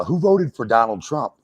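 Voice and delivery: bold crowd question from the stage; mock stage delivery; stage joke line. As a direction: ask it like working the room. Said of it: "I was doing this joke".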